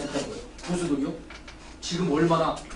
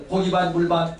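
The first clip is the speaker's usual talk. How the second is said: louder, livelier call; 4 dB louder than usual. Shown as a demonstration. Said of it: "다시 해보세요".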